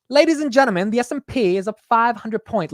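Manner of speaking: high, loud British announcer impression; mock British accent. Shown as a demonstration. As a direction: proclaim it in a bad British accent. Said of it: "sounding like a Brit".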